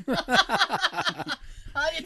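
high, very loud triumphant crowing; boastful mock champion. Co-host crowing over ghosts' hide-and-seek wins, loudly boastful.

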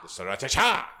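high-pitched, punched-up announcement; with gusto. Shown as a demonstration. Host re-announcing the cocktail on request, with gusto. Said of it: "say it with more gusto".

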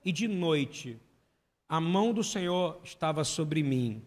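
slow solemn scripture reading; leitura solene. Real, not acted. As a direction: read the psalm slowly and gravely. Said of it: "Aí diz assim". (leitura lenta e solene do salmo)

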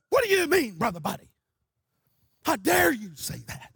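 mock indignation. Tomato-splattered preachers challenge Brother Buddy, mock indignant. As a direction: scold him in mock outrage. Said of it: "they're mad and angry".

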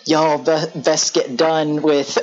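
slow, drawn-out Southern aunt; lightly voiced aunt taking her time over a cigarette; Aunt Lori. Aunt Lori dragging on a cigarette, slow drawl. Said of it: "Aunt Lori dragging on a cigarette".

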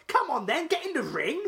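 high, loud impatient heckle; crowd yelling. Retold or imitated. Fan retelling the crowd shouting at a hesitant referee, impatient yell. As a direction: imitate a crowd urging someone on.

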